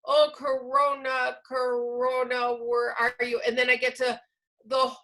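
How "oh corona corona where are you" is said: slow, hesitant reading of a hard line; halting struggling reader. Retold or imitated. Teacher imitating a struggling student, slow and halting. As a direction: stumble through it like a weak reader. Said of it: "If I start out going".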